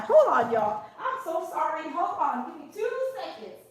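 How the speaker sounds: quiet aside, sniffling nose; runny nose. Real, not acted. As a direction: softly excuse yourself, nose running. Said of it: "my nose is running".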